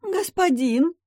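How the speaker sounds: high, piercing plea to the master; imploring maid. Acted. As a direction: fall before him crying out. Maid falls to her knees.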